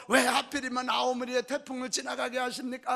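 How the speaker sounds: mock protest to God; acted-out grumbling prayer; resentful complaint. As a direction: imitate aggrieved farmers complaining. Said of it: "원망하고요".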